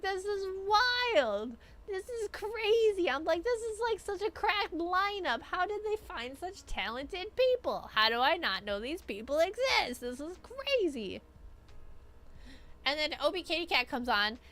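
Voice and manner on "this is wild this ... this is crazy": high, slow, starstruck raving; awed rave. Retold or imitated. Awed by the lineup.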